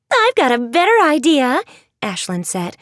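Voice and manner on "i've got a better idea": higher, louder eager voice; bubbling over with an idea; eager girl. Acted. Ashlyn to the girls, eager and bright.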